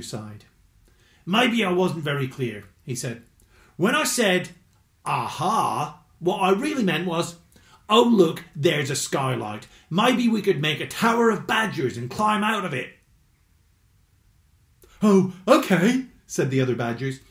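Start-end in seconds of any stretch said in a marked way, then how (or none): 1.3-13.0 lightly voiced patient badger; Harry the Badger. 15.0-16.1 slow, louder and higher chorus of badgers; drawn-out agreeable badger chorus; badgers agreeing.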